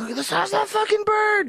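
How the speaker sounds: high, amazed pretend exclaim; imagined space tourist gawking; mock amazement. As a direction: gawk at the bird in mock wonder. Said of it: "You're like".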